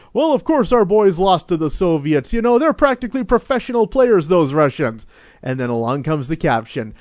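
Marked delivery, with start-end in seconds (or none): 0.1-5.1 mock heritage narrator. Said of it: "Then it goes all the way back".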